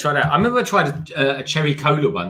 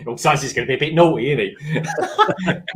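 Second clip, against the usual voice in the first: laughing self-quote. Retold or imitated. Laughing at own promo line.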